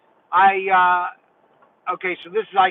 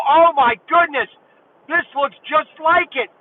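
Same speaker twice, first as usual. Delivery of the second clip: higher, thrilled disbelief; excited, higher-pitched retelling; retold amazement; 6 semitones higher than usual. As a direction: gush like a kid seeing a new toy. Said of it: "I almost lost it then".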